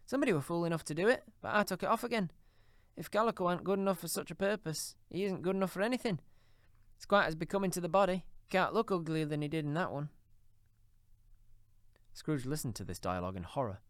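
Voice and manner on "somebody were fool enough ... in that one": put-on high, coarse old charwoman, brazen; a bold thieving charwoman, defiant; high brash charwoman voice, louder. A narrator's reading. Charwoman mocks the burial.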